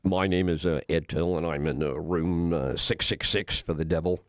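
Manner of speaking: deep, smooth hotel-guest voice; low voice. Retold or imitated. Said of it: "get my, uh, low voice going".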